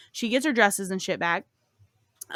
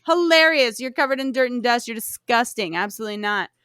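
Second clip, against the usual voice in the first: hammed-up cruel stepmother mocking; scornful stepmother. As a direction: laugh her down, then dismiss her. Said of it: "her stepmother's like".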